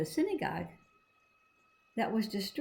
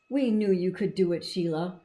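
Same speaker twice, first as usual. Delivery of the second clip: mild shout; 4 dB louder than usual. Acted. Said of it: "shouted Harry and Neil and Gail".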